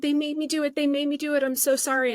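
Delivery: high, pleading mock sob, lightly done; imitating a friend's tearful apology; retold crying. Teammate apologizing after confessional, imitated tearfully. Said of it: "She's hysterically crying".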